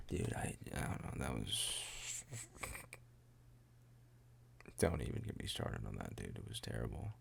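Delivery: low muttered aside. Real, not acted. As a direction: mumble it under your breath.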